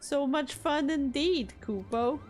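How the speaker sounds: lightly voiced smug little creature; taunting Moogle. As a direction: tease them sweetly, gloating. Moogles taunting about Riel.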